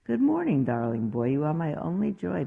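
sweet high-pitched mother's greeting; doting mother. Acted. Mother greeting her son in the morning, sweet and doting. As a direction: coo it like a doting mom. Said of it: "his mother said".

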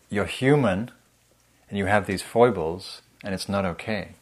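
a mildly judging inner critic. Acted. Inner critic telling the listener their foibles aren't okay, mildly judging. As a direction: lay a light reproach on the words. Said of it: "the critic is basically saying".

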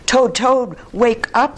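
high, loud, urgent call; calling to wake someone. A narrator's reading. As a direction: call out to rouse a sleeper. Frog rousing sleeping Toad.

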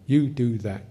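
demanding tone. Shown as a demonstration. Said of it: "where you can say".

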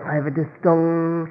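pleading, put-on excuse; lying excuse. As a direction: plead apologetically with a made-up excuse. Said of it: "you start to lie".

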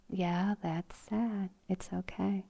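calm acceptance. Retold or imitated. Voicing calm acceptance of sadness.

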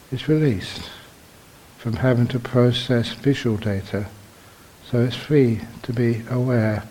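measured meditation teacher, long pauses between phrases; guided meditation. Real, not acted. Teacher guiding meditators into awareness of the body, measured and unhurried. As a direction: guide them gently, phrase by phrase, leaving silences.

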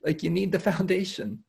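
mock dismay. Teacher imagines the Buddhists reacting to skipped foundations, with mock dismay. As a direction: play the Buddhists throwing up their hands in disbelief. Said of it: "I can just see the Buddhists being like".

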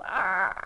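drawn-out mock yell of agitation; agitated cry. Cartoon kid running around in circles, agitated mock yell. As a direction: let out a long pretend cry of frustration. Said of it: "really agitated".

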